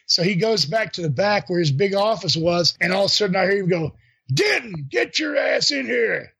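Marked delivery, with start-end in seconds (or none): 4.3-6.3 retold angry shout. Harley calling him into his office, mock shout. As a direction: boss yelling down the hall, slower.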